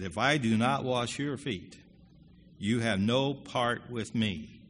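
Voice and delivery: slow, measured stern reply; stern Jesus. Retold or imitated. Jesus answering Peter, slow and stern. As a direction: lay down the words slowly and firmly. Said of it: "Jesus answered pretty sternly".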